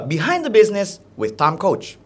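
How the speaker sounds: stretched, deliberate show title "Behind the business"; varied intonation. Shown as a demonstration. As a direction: announce "Behind the business with Tom Coach" slowly. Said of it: "itu bisa dirubah-rubah".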